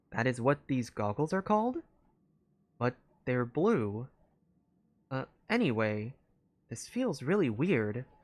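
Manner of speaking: robot-like machine voice. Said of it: "the robotic voice I've been using".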